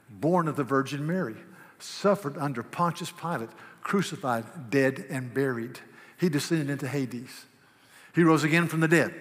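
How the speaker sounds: steady, measured prayerful recitation; creed recitation. Acted.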